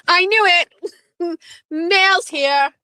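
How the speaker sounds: high-pitched, giggly excitement; real excitement. Real, not acted. Host telling viewers the mail has arrived, giddy and laughing. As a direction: crow it high, with laughs breaking in.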